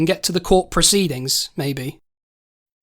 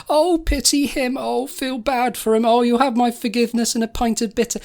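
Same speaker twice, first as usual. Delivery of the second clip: mocking imitation; 4 semitones higher than usual. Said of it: "trying to sound like the hero".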